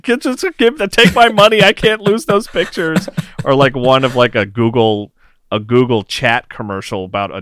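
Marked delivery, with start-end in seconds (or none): 0.0-3.1 high, louder desperate pleading; desperate plea. Retold or imitated. New dad pleading with the software ad, high and desperate. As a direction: beg as if nothing matters more. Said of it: "I'm like".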